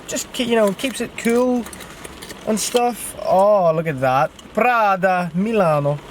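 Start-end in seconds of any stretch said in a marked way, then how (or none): 4.5-6.0 lightly put-on Italian accent, savoring the brand name; mock Italian accent. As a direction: say it like a proud Italian salesman, only a hint of Italian accent. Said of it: "It's my Italian accent".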